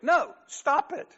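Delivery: high, loud and slow stop order; yell. Retold or imitated. Counselor yells again over her complaints. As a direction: shout her down, dragging the words. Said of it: "then he yells it".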